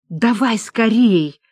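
slow, breathy давай скорей; Люба urging Анна, slow and breathy; breathed out urgently. Acted. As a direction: push her on with a long exhale. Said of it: "выдохнула Люба".

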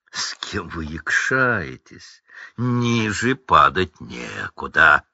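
slow, low drawl of contempt; disdainful Lucius. Acted. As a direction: look down on them slowly. Малфой презирает родителей Гермионы. (медленное презрительное растягивание Люциуса)

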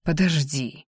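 soft breathless plea between kisses. A narrator's reading. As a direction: murmur it between kisses, pulling away. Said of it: "шептал я между поцелуями".

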